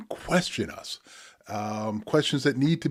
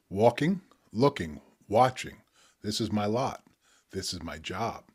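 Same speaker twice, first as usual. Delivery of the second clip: spoken word poetry. Acted. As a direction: let each image land, pause between. Reads his poem Strawberry Blues.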